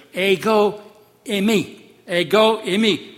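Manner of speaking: reassuring call over the storm; Jesus calling out to frightened disciples; called out assurance. Acted. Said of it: "he calls to them, assures them".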